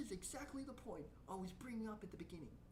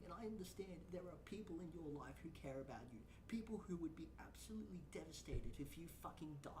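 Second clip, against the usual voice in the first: sincere whisper; 5 semitones lower, 3 dB quieter than usual. Real, not acted. Sincere plea to the streamer.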